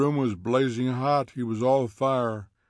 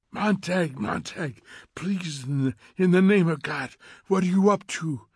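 high, urgent plea building louder; pleading; 6 semitones higher, 4 dB louder than usual. A narrator's reading. Faber begs Montag in his ear, pleading. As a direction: plead with him, rising to a cry. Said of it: "pleaded Faber".

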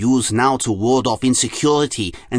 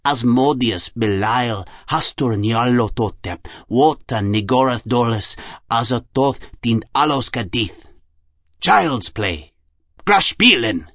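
put-on slow German-accented incantation; deliberate German-accented recital with long pauses; slower than usual. A narrator's reading. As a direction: intone each name slowly in a German accent. Jung recites codes in character.

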